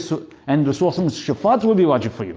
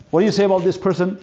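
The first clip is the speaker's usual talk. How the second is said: questioning angel; 5 semitones higher than usual. Retold or imitated. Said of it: "the three questions Munkar and Nakir are gonna ask".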